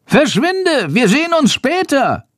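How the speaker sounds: high shrieking bat call; seething shrieking spirit. A narrator's reading. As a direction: shriek it as a tiny creature. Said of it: "ruft Chandor".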